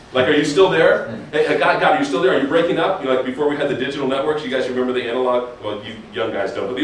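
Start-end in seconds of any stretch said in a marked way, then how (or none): 0.3-3.0 mock louder phone check, half laughing; bad phone call. Praying like shouting into a bad cell phone. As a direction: call out like the line keeps dropping. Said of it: "like a bad cell phone connection".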